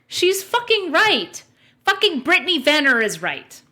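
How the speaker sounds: loud, slow, laughing groan; laughing exasperation. Real, not acted. Streamer reacting to the clip, loud laughing outburst. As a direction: howl at how right she is.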